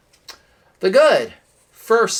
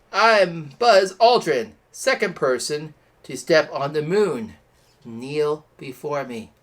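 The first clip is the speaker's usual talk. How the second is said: Buzz Aldrin impression; 3 dB louder than usual. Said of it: "That was horrible".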